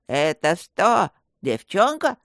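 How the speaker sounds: slow, dull-witted lisp; dim lisping robber. A narrator's reading. The lisping robber stupidly asks about the girl, slow dim lisp. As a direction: drag it out like a slow-witted thug. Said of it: "тупо прошепелявил второй".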